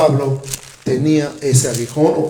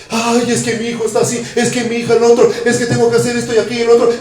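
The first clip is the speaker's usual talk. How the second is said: higher, rattling it off fast; a worried sister piling up excuses; fretful sister; 6 semitones higher, faster than usual. Retold or imitated. Preacher imitates an anxious church sister listing worries, fast and fretful. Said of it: "Y ahí está la hermana".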